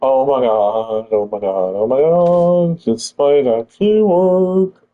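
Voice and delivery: slow, rising disbelief turning to joy; shrieking jackpot winner. Real, not acted. Lineup suddenly comes together.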